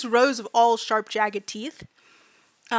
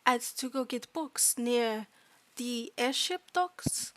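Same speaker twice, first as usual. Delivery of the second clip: hesitant non-native fairy voice; fairy student recounting mistreatment; 7 dB quieter than usual. Acted. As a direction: tell it simply, groping for each word. Fairy recounts being tricked.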